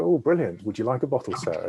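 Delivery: put-on hopeful lift as a young salesman makes the sale; eager salesman pitch. Perfume seller at the door pushing a bottle, eager. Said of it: "And I go".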